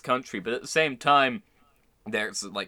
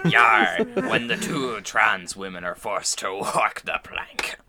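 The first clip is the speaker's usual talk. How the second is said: pirate voice; 2 semitones lower, slower than usual. Pretend. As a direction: growl it like a pirate. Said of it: "in a pirate voice".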